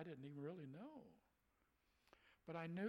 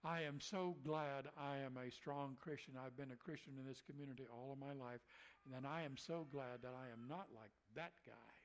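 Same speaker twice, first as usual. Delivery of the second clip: mock smug testimony. Church woman testifying against the rascal, mock smug. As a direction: parody a pious show-off.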